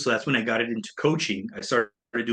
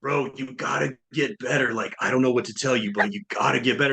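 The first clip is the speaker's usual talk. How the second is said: a hint of California surfer bro. Comedian friend telling a comic to improve, light surfer voice. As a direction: lightly mimic a surfer friend giving blunt advice. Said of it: "he had, like, this really surfer voice".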